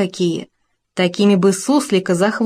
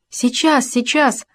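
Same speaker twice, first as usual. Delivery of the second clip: called-back reply; 6 semitones higher, slower than usual. A narrator's reading. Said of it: "громко откликнулся лучший друг".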